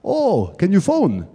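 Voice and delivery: slow mock Russian accent; drawn-out Russian-accented request; Russian-accented mechanic. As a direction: imitate an eager Russian mechanic. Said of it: "He's got a big Russian voice".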